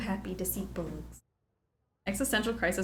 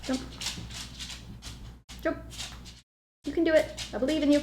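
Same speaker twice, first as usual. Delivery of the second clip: encouraging; 7 semitones higher, faster than usual. Real, not acted. Cheering the dog to jump.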